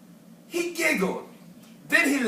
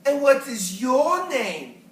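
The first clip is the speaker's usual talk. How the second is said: polite question; 3 dB louder than usual. Acted. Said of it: "he tried to be polite".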